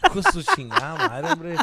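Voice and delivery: laughing Spanish curse shouted high and loud; hammed-up indignant shout, laughing; mock outraged yell. Telling friends he's old, with a laughing shout.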